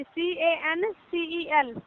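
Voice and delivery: slow letter-by-letter spelling; spelling out slowly. Shown as a demonstration. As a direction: repeat the letters slowly and clearly. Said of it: "कैंसिल?".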